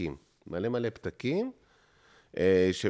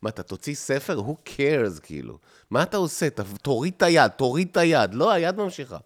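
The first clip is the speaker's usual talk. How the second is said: high, agitated voices heckling the writer; nagging inner voices; 5 semitones higher, 4 dB louder than usual. Acted. Inner critic scolds himself for compulsively writing, high nagging voices. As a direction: play both sides of a head argument. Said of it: "כמו הקולות האלה שעשינו קודם".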